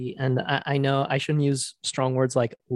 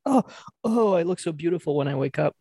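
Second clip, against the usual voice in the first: imitating an influencer; 5 semitones higher, faster than usual. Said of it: "acts like she just woke up".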